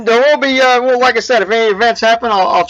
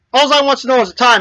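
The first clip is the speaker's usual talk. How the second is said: mildly exasperated, slightly higher voice; upset; 5 semitones higher than usual. Acted. Hurried man to old man with the dog, mildly upset. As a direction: act out a man with no time for nonsense. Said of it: "got upset because this guy gets his appointment".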